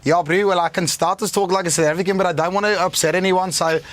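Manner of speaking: casual South African accent on request. Shown as a demonstration. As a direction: talk like a careful South African bro. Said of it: "I'm pulling them out of a South African".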